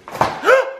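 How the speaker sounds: high shocked gasp; sharp outraged gasp. Real, not acted. Husband cut off by partner gasps in outrage.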